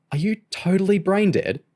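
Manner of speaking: scornful. A narrator's reading. James mocks Kerry's naive idea.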